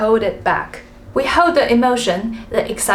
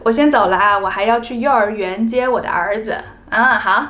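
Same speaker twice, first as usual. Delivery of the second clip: casual sign-off. Shown as a demonstration. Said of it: "state what we are going to do".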